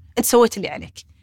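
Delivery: ordinary talk, nothing marked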